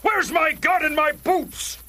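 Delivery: shout. Acted. Eager to go to battle.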